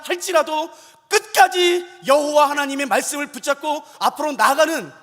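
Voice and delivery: loud, emphatic preaching voice; rousing sermon at full voice; impassioned preaching. Real, not acted. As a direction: preach it out forcefully, phrase by phrase.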